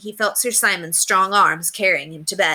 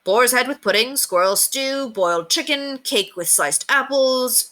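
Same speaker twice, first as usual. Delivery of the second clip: rattling off; 6 semitones higher than usual. A narrator's reading. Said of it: "Richard rattled off".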